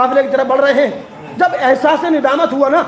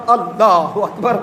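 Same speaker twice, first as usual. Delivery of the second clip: takbir; 5 semitones lower, much slower than usual. Acted. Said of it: "آواز دی".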